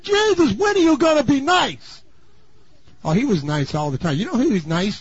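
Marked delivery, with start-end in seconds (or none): 0.0-2.0 whiny disciples. Retold or imitated. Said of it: "the disciples said".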